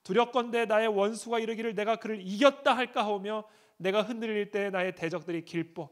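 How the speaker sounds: a preacher voicing David's desperate plea; anguished psalm reading. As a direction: cry the psalm out like David in pain.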